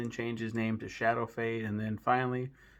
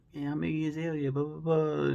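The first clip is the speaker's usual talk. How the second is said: higher, fast mock Australian accent; mock rapper accent; 5 semitones higher than usual. Mocking how a rapper talks, in a put-on Australian accent. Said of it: "how she talks is".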